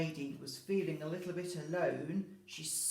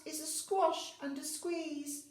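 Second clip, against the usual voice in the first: put-on little old lady; 9 semitones higher than usual. Old lady's refrain, high and slow.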